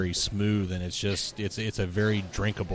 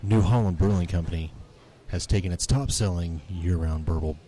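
sexy voice; 2 semitones lower than usual. Pretend. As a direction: read the beer label with a hint of playful seduction. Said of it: "read it in your sexy voice".

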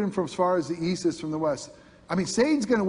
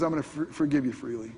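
softer, quick and tender promise; gentle God voice; 3 semitones lower, 4 dB quieter, faster than usual. Pretend. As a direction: reassure them gently. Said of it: "No, no, he says".

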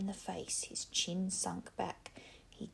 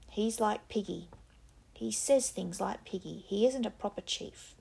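voice going up, determined; 2 semitones higher, 6 dB louder than usual. Acted. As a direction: push it out against the silence. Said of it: "Jack's voice went up, tremulous yet determined".

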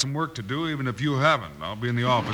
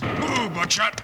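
much higher shouted command; urging horse; 9 semitones higher, much slower than usual. Acted. Bill shouting at his horse to chase robbers, urgent. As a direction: drive the horse hard.

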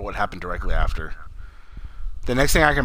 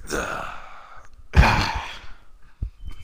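long breathy exhale; mock dying breath; 4 semitones lower than usual. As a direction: let the air run out as if expiring. Pretends to expire mid-password.

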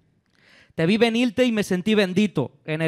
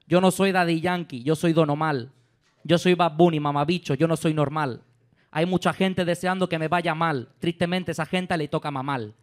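put-on forced Puerto Rican accent; 3 dB quieter than usual. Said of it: "tengo que forzar el acento para que parezca más de Bad Bunny".

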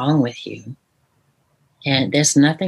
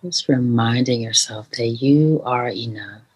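guided meditation. Shown as a demonstration. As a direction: gently lead the listener into calm. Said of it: "Can we do one right now?".

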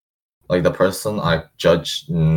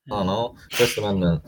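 usual speaking voice

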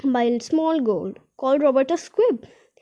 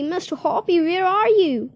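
excited call; 6 semitones higher than usual. Acted. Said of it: "she was shouting".

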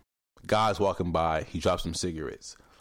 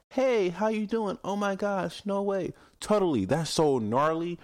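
put-on valley girl talk; 10 semitones higher than usual. Mocking people who gush at others, high valley girl. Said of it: "someone talking a certain way".

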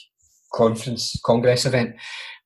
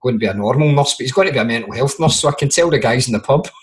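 imitating dad; 2 semitones lower, faster than usual. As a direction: rattle it off like a gruff shipbuilder dad joking. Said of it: "my dad's like".

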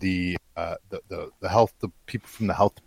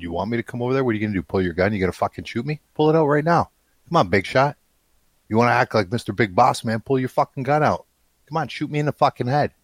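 retold taunting; 3 semitones higher, faster than usual. Taunting the border guard to pull his gun, heated challenge. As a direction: goad him like you mean it.

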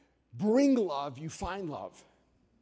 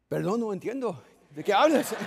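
feigned confusion in Spanish; 2 semitones higher, 5 dB louder than usual. Pretend. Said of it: "And I said".

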